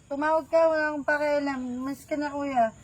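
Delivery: put-on slurring drunk talk; tipsy and careless. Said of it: "Lasing ka pati".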